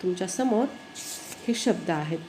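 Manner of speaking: ordinary talk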